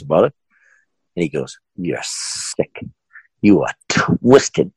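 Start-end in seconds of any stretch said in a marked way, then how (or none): 1.8-4.7 slow, spaced-out accusation, starting hushed; mock fiery customer. Angry customer confronting haunted house boss, mock seething. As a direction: imitate an outraged customer, stretching each word. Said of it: "And he was fiery".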